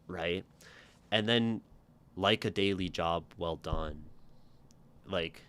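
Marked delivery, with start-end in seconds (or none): 2.2-4.0 like a daily job well done, said level and blunt; flat. Shown as a demonstration. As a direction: drop the lilt, keep it level. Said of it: "this would be more flat".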